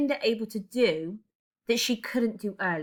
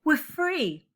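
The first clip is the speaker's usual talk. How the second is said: higher, a hint of sobbing release; 8 semitones higher, 3 dB louder than usual. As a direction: let it out in a mild sob. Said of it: "sobbing, more fully released".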